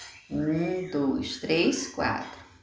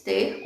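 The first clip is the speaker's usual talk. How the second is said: "Ter" as one single raised beat; teacher sounding out the single syllable "Ter"; 5 semitones higher than usual. Shown as a demonstration. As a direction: say "Ter" as one whole piece, pitched up. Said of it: "um pedacinho".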